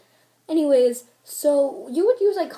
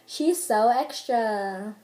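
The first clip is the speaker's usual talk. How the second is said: drawn-out judgement; much slower than usual. Shown as a demonstration. Example of the word extra.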